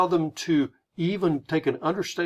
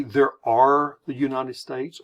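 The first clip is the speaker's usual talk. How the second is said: ARE stretched and punched; "are" held long and louder; stress on ARE; 4 dB louder than usual. Shown as a demonstration. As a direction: lean slowly on the word are. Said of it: "Do we say".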